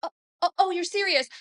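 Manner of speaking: high-pitched flustered apology, projected unnaturally; actress laughing and apologizing. Retold or imitated. Imitating the actress apologizing to a neurosurgeon, high and stagey. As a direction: play an overdone, stagey apology. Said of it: "she's kind of laughing and apologizing".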